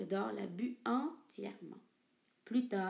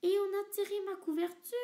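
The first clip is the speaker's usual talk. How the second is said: much higher, louder mama bear; 10 semitones higher, 5 dB louder than usual. Acted. Mama bear notices her pulled blanket, high voice. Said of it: "dit maman ours avec sa moyenne voix".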